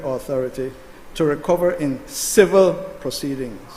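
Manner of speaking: deliberate, emphatic reading of a legal clause; slow reading. Real, not acted. Senator reads clause eight aloud for an opponent, deliberately. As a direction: read it out firmly, phrase by phrase. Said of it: "I will read it slow for you".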